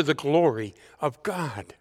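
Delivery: hushed whisper ending the psalm. Acted. Preacher closing the psalm reading to the congregation in a whisper. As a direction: breathe the last line out in a whisper.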